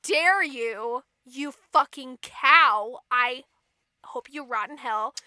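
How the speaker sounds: slow, spaced-out mock outrage; hammed-up indignant king; acted fury. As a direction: let each phrase land separately. King rages at queen.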